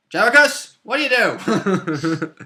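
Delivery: loud, high-pitched mock shout, stretched at the end; startled call-out. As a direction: call out to a companion in exaggerated dismay, about to laugh. Acts out companion calling to fallen fighter.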